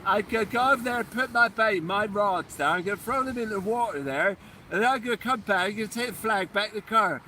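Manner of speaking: mock Somerset accent. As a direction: play a proud Somerset fisherman. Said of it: "I like that accent".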